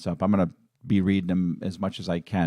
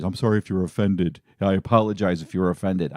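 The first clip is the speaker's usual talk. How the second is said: mock non-apology; 2 semitones lower, faster than usual. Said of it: "I hate those apologies".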